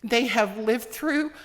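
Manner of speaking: holding back tears, emotional; teary-eyed. Real, not acted. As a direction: voice on the edge of tears. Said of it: "I'm getting teary-eyed".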